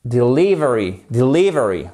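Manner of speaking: "delivery" with LIV stressed, falling; de-LIV-ery, teacher repeating it; stress on second syllable. Shown as a demonstration. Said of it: "accent tonique sur la deuxième syllabe".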